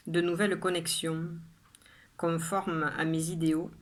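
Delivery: measured poem reading with pauses after each line; poem recitation. Acted. Poet reading her own poem to viewers, measured recitation.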